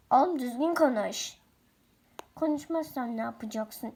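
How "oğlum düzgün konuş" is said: scolding. Acted. Scolding stepmother.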